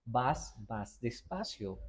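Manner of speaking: stretched out very slow; slow-motion demo voice. Shown as a demonstration. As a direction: drag the words like slow motion. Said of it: "empiezas a caminar despacio".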